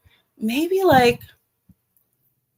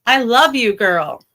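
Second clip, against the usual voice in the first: drawn-out, loud gush of affection; gushing love you; 5 dB louder, slower than usual. Real, not acted. Greeting a fan in chat, gushing slow and loud. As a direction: swoon over the viewer.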